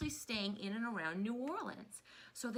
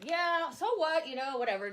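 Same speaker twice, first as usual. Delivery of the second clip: mock strict dismissive; 6 semitones higher, 5 dB louder than usual. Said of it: "I was like".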